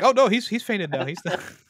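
loud, high-pitched retold cry; mock dismay. Friend retelling how he called off the fight, mock dismay. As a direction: act out alarm that someone has passed out. Acting out character stopping the fight.

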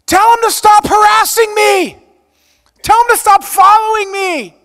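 loud high yelling demand; mock harasser yell. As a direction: shout it like an unhinged visitor banging at the door.

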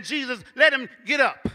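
builds into a loud pleading prayer; fervent prayer. Retold or imitated. Imagined aunt praying for cousin, building fervent plea. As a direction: pray it out, rising to a cry. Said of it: "I would hear her saying".

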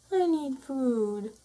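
slow, drawn out plea; slow pleading. Acted. Intermediate cat pleading for food, slow and drawn out. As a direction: stretch the need.

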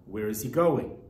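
quoted question, lifted on going. Shown as a demonstration. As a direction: ask it outright. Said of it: "the answer to the question".

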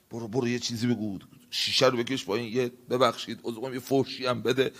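soft, fast coaxing voice; the devil urging the driver, soft and quick; sly tempter. Acted. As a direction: coax him quietly into cursing. Devil whispering temptation to curse.

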